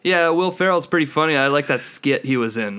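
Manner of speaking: a hint of a clueless fan. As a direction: imitate a chatty dimwit. Mimics clueless skit fans.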